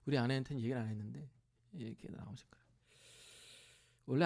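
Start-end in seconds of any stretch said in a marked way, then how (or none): 1.7-2.6 softly whispered aside. Real, not acted. Preacher whispering to the congregation about his father. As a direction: breathe it out as a hushed aside. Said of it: "whispered repeat".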